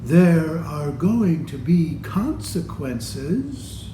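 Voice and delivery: serious. Acted. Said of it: "she's saying seriously".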